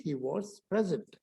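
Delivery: 'he was present' joined, 'was' as short 'voz'; run together. Shown as a demonstration. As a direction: link 'he was' as one unit, falling. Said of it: "इकट्ठा बोल करके". (इकट्ठा जुड़ा उच्चारण)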